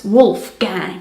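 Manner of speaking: slow American "Wolfgang"; American accent. Shown as a demonstration. Showing viewers how Americans say it, American accent. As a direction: say "Wolfgang" slowly as WOOLF-gang, American accent. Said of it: "Pronounced with an American accent".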